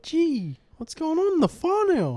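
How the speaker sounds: mock a Kiwi mate with a high, stretched Kiwi accent. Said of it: "Kiwi accent".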